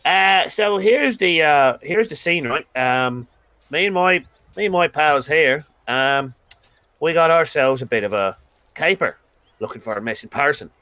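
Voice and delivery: a touch of the rowdy friend selling a caper; lightly voiced Demonarin. Demon explains the job.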